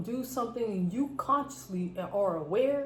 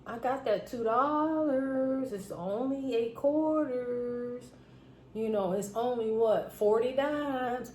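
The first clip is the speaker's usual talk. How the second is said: slow, higher, easy and kind; generous reassurance; 4 semitones higher, slower than usual. Retold or imitated. Server telling a short dad not to worry, slow and kind. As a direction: take the weight off him gently. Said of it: "I was like".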